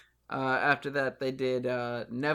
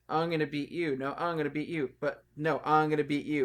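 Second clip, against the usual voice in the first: mocking repetitive promo; 3 semitones higher, 3 dB louder than usual. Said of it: "which was".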